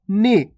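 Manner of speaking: नी with a short clipped vowel; short nee. Shown as a demonstration. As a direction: say नी quickly, short ई. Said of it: "कम समय लग रहा है यहाँ पे".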